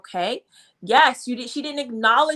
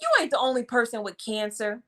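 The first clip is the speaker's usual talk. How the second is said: quick, brushing-off "You ain't" delivery; careless, fast dismissive tone; faster than usual. Shown as a demonstration. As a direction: toss it off like you don't care. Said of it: "What if I would have said it like that".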